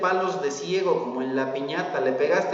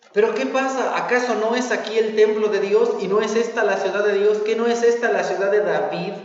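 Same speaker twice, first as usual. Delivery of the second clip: desperate outcry; 2 semitones higher than usual. Retold or imitated. Preacher voices the nation of Judah crying out, mildly desperate. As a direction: plead in disbelief, voicing a panicked people. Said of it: "grita desesperadamente".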